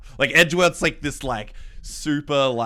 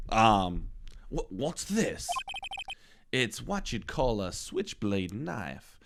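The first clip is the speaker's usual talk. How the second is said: lightly voiced courtroom characters; deliberate sinister police chief; character voices.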